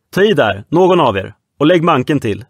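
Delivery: loud, high urging orders; commanding shouts. Acted. Red Nelson ordering the crew to haul the safe. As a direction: drive the men to heave together.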